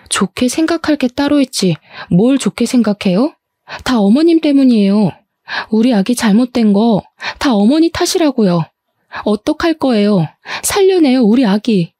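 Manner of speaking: a wife crying out at her mother-in-law; tearful outburst. Acted. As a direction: blame her through tears. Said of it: "노려보며 눈물을 펑펑 쏟았어요".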